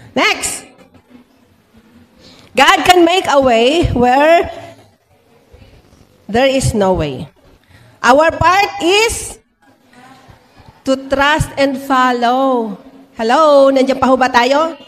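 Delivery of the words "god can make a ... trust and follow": slow, measured proclamation with long pauses; deliberate sermon read-out. Acted. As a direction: let each phrase land slowly before the next. Reads out the sermon's key statement. (mabagal at madiing pagbigkas)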